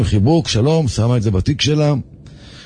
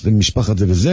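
threatening voice; 5 semitones lower than usual. Retold or imitated. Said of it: "קול מאיים כזה".

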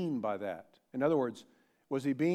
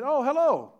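"Oh, hello" much higher and louder, thrilled; excited hello; 11 semitones higher, 9 dB louder than usual. Shown as a demonstration. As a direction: burst out "Oh, hello" with delight. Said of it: "it's sort of an excited".

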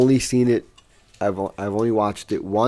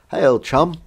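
higher, louder failed Aussie accent; bad Australian accent; 6 semitones higher, 6 dB louder than usual. Shown as a demonstration. Friend admits he can't do it, bad Australian accent. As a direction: badly fake an Australian greeting. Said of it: "That's not a very good Australian accent".

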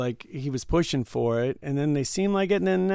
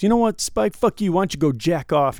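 higher, louder retold cursing; mock-belligerent send-off; angry customer; 4 semitones higher, 5 dB louder than usual. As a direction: tell him off as a sore loser. Acted customer cursing the storyteller.

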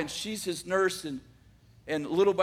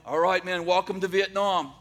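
sergeant yelling; 5 dB louder than usual. Retold or imitated. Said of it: "sergeant's yelling".

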